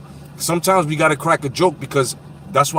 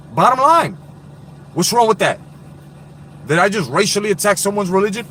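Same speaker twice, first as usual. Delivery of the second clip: raised rhetorical challenge; 4 semitones higher than usual. Real, not acted. Livestreamer challenging his audience, raised and pressing. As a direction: demand an answer from the viewers.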